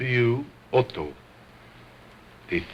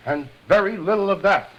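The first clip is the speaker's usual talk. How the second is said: stern, fast scolding; 7 semitones higher than usual. Acted. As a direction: scold the cheeky dummy. Ventriloquist scolds dummy.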